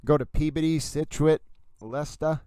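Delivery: local Massachusetts place names, Boston-style; playful Boston accent. Pretend. Streamer riffing on local towns, playful Boston accent. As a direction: list the towns with dropped R's, Boston accent.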